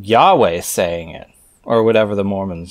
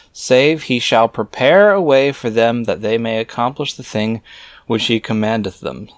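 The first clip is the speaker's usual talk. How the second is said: scripture reading; 3 semitones higher than usual. Acted. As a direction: intone the archaic words like a preacher. Reads scripture aloud.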